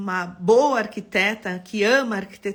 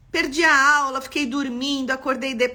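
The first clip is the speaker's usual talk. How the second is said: higher, louder mock whine of a late student; mock student excuse; 3 semitones higher, 4 dB louder than usual. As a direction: play the student's excuse, teasing. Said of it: "vocês estão me mandando direct".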